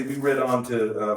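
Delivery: ordinary talk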